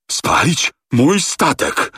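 high, slow choked words; rasping outrage. A narrator's reading. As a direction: barely get the words out. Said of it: "charkotał kapitan Speedy".

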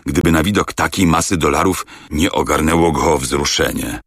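plain reading voice

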